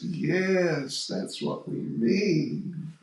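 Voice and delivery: slow, teasing mock agreement; sarcastic. Gopis teasing the newcomer about her parents, slow sarcastic agreement. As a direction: agree in a dry, knowing drawl. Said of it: "They're being sarcastic".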